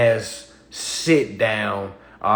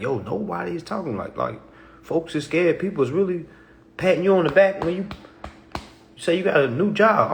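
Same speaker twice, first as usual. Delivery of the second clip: excited rant; 7 semitones higher than usual. Retold or imitated. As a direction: get fired up about it. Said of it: "'cause I'm like".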